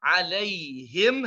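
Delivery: Alaihim slow with a clear i; light alaihim; correct kasrah. Shown as a demonstration. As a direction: keep the kasrah clean. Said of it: "hati-hati dengan kasrahnya".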